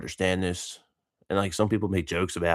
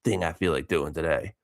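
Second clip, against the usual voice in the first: slow, drawn-out dread with a laugh; half-laughing, dragged-out reluctance; mock dread. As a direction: act out mild dread, slowly. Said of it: "this sense of dread".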